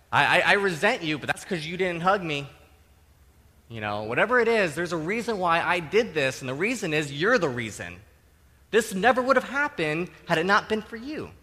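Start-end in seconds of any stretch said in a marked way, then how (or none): 0.1-2.5 loud, stammered excuse turning into accusation; defensive blame shifting. Acted. Sinner shifting blame onto the other person, defensive. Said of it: "That's blame shifting". 4.0-11.3 emphatic, mock self-justifying accusation; blame shifting. Sinner telling the victim they're the reason, accusing. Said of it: "That's blame shifting".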